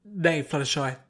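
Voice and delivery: gruff paladin. Acted. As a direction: boom a kindly correction.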